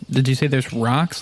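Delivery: ordinary delivery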